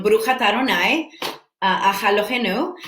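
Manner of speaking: attempted Hebrew accent, quick phrases; tentative go at a Hebrew accent. Shown as a demonstration. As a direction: try the blessing in a Hebrew accent. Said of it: "That's my accent of, of, uh, Hebrew".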